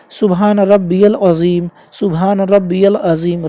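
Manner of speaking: slow "सुभान रब्बियल अजीम" with "रब्बियल" drawn out; correct pronunciation. Shown as a demonstration. Teacher slowly showing the right recitation of "रब्बियल". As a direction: stretch "रब्बियल" so the "ई-ए" is clearly heard. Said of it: "सुन लीजिए एक बार दोबारा".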